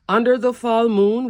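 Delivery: giggling through the words; laughing. Real, not acted. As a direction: laugh at your own pun, then read on. Laughs at her song pun.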